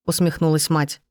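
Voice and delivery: usual speaking voice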